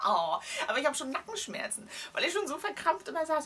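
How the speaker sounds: aching, strained voice; groaning with a stiff neck; sore muscles. Real, not acted. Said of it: "Oh, mir tut alles weh".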